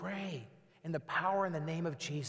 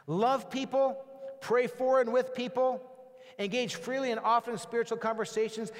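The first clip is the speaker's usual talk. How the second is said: emphatic exhortation; 3 semitones higher than usual. Real, not acted. Sermon summary exhortation.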